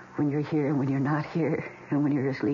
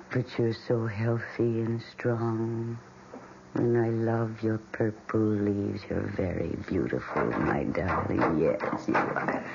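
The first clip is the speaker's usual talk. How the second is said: cooing to a plant; 3 semitones lower than usual. Acted. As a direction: coo over her like a proud mother. Cooing softly to a houseplant.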